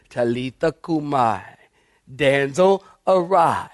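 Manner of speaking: softly coaxing, slightly hushed; quiet, tender. Retold or imitated. Preacher voices Jesus waking Jairus' daughter, quietly and tenderly. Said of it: "Quietly and tenderly".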